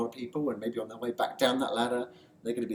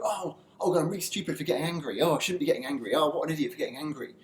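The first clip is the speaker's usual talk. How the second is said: louder, fussing at yourself for getting angry; self-scolding; 3 semitones higher, 4 dB louder than usual. Retold or imitated. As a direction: berate yourself in a rising fluster. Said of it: "get really angry and go".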